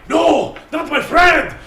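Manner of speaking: high, loud howl of rage; furious anguished shout. Acted. Harinoshi screaming revenge over his fallen friend. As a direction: scream vengeance at the killer.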